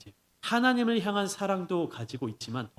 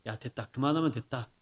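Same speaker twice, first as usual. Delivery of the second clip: relenting teacher; 3 semitones lower than usual. Acted. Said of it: "더 무서운 선생님이".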